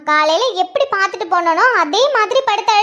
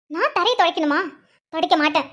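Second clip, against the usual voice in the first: low, softer, resentful muttering; quiet indignation; 4 semitones lower, 5 dB quieter than usual. Acted. Sister alone after being told to wipe the floor, quietly seething. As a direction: seethe under your breath.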